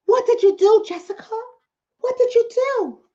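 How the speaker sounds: high pressing mock reporter yell. Reporter shouting at arrested woman, mock yell. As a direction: call out the question from the crowd. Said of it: "Yells a reporter in the background".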